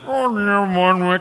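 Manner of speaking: sudden high "Oh, no, man" as the car won't start; dismayed cry. Retold or imitated. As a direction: groan in dismay at the engine. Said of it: "And I went".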